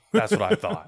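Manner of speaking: very high smug repeat; squeaky smug. Acted. Player mocking the tailor, very high smug voice. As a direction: squeak it out smugly.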